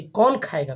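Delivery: कौन खाएगा as a question with कौन stressed; asking, stress on कौन. Shown as a demonstration. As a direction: put the weight on कौन in कौन खाएगा. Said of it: "पूछ रहा है कौन खाएगा".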